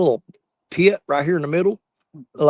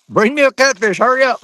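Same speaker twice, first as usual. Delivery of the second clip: excited; 7 semitones higher, 6 dB louder than usual. Real, not acted. Laughing, eager for a catfish.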